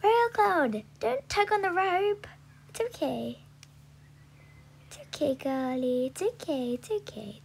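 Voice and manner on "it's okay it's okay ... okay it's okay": soft, hushed reassurance; calm a spooked horse gently; soothing. Real, not acted. Rider soothing her nervous horse, softly.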